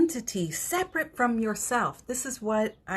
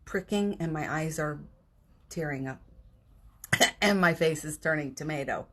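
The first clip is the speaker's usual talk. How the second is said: tearing up; 2 semitones lower than usual. Real, not acted. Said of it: "all I say is the word disappointed".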